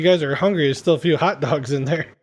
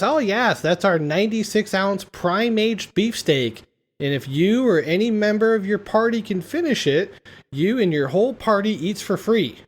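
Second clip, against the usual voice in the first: waitress; 4 semitones higher than usual. Retold or imitated. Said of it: "The waitress says".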